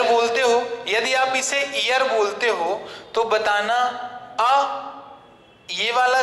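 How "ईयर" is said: ईयर with a leading "ee" vowel, ee-yar; mispronounced ईयर. Retold or imitated. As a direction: say ईयर like English "ear". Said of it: "इसका pronunciation ही आप गलत कर रहे हो".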